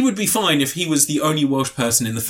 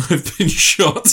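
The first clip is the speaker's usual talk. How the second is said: squirrel; 3 semitones higher, slower than usual. Retold or imitated. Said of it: "And the squirrel goes".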